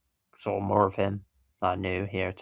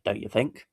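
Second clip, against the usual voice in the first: Don't you think? with a rising question tune; questioning tag; 2 semitones higher than usual. Shown as a demonstration. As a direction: lift the end of think into a question. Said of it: "then say".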